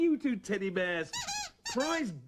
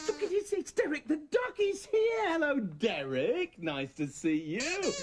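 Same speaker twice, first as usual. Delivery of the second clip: excited; 6 semitones higher than usual. Acted. Man suddenly spotting Derek the duck, excited. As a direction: exclaim in delight, easing into a welcome.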